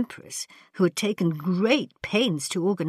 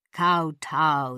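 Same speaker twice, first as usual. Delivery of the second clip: ordering; 4 dB louder than usual. Acted. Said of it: "the Grand Vizier ordered".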